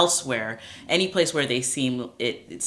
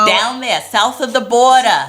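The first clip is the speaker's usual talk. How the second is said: mock announcer; 10 semitones higher, 13 dB louder than usual. Joking about Mexico geography.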